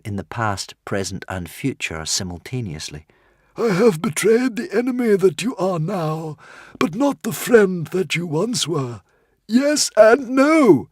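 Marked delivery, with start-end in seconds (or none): 3.6-10.9 very high, louder squeak; tiny frantic squeaking creature; squeaky little dragon. A narrator's reading. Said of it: "squeaked the Woden's Fang".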